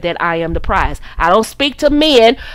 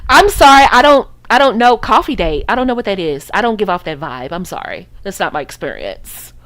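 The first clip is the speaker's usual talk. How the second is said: bougie innocence; 2 semitones lower than usual. Shown as a demonstration. Coach showing ladies a bougie, puzzled brush-off. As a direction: act like you've truly never heard of it. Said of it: "You gotta get bougie on 'em".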